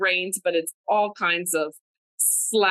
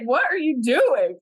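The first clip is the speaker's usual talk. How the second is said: mock incredulous, higher-pitched question; imitating a friend's incredulous teasing; amused teasing; 5 semitones higher, 3 dB louder than usual.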